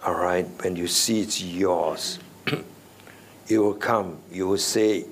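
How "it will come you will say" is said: normal talking voice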